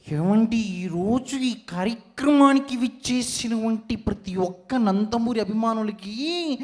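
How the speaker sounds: a lightly put-on guest's speech voice; mimicked guest voice. Mimic greets the Nandamuri fans in a borrowed voice. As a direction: greet the fans in someone else's voice.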